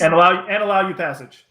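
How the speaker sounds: high, loud otherworldly creature; high alien guide voice; odd creature voice. Acted. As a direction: speak as the strange entity. GM voicing creature via translator.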